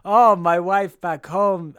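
put-on slow, drawn-out Russian accent; a lazy, slow Russian accent. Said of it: "I am just choosing to do a Russian accent".

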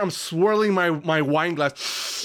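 mock posh British wine snob; lazy man British. A British wine snob posing as a grown-up. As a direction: put on a lazy British accent. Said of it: "What is this accent, by the way?".

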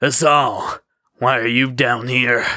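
lightly voiced smarmy rival; a touch of oily smugness. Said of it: "in that smarmy voice he always used".

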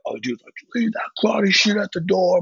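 a high mock voice for the scolding kids. Kids at the show lecturing him, mock high scold.

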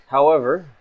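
a guarded stranger weighing her words; quiet suspicious woman; mysterious stranger. Acted. GM voices stranger.

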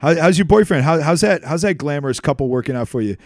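loud, laughing, taunting insults; swearing tirade. Real, not acted. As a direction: taunt them with loud curses. Mock-addressing the betrayer and girlfriend.

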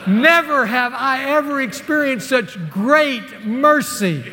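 slow, high and loud, choked with laughter; overcome, laughing through tears. Retold or imitated. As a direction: let the awe spill out in a shaky laugh. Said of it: "I started weeping uncontrollably".

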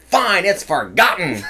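high snappy retort; yelling. Retold or imitated. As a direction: yell it back indignantly. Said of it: "And the lady yells".

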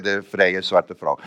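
slow, pointed correction; corrected title. Real, not acted. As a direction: stress the new wording slowly. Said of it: "tegenwoordig moeten we zeggen". (nadrukkelijk langzaam verbeterd)

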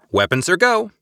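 high, loud excited yelp. A narrator's reading. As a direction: blurt it out high and eager. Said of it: "Eliza yelped".

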